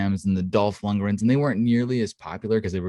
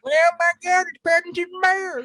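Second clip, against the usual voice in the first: squealing fake fan delight, far higher; mock excitement; 3 dB louder than usual. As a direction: gush like a starstruck kid, mocking.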